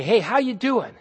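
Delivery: high, loud chirpy hello; breezy greeting. Retold or imitated. Preacher mimics a casual acquaintance, high and chirpy. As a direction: toss off a cheery passerby greeting.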